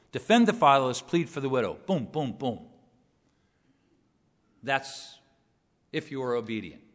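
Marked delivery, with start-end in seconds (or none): 0.1-2.7 punched commands, hard at the start; brisk, hammered list; rapid-fire staccato. Shown as a demonstration. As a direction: land each phrase like a machine-gun burst. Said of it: "rapid-fire delivery".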